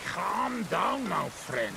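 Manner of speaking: calming. Acted. Soothing the drunk.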